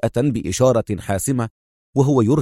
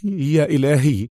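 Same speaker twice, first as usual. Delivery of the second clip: high, slow groan of dismay; dismayed murmur; 4 semitones higher than usual. A narrator's reading. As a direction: draw it out, slightly higher, in dismay. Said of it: "غمغم خالد".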